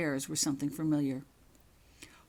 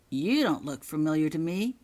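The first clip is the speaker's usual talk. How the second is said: suspicious; 5 dB louder than usual. Acted. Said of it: "he stated suspiciously".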